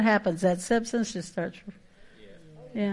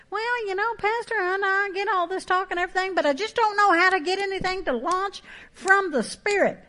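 much higher, whining doubter's voice; mock whiny churchgoer; 10 semitones higher than usual. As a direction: play the helpless congregant, pitched way up.

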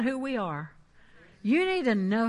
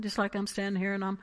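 low, quiet conversational voice; casual talking; 5 semitones lower, 9 dB quieter than usual. Shown as a demonstration. Preacher showing how Jesus just talked to Brother Hagin, casual and low. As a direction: drop into soft, offhand talk. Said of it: "just talking like this".

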